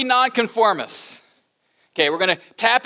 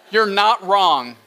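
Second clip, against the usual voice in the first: dry cynical drawl; 3 semitones lower, slower than usual. Shown as a demonstration. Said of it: "I had to work hard to say".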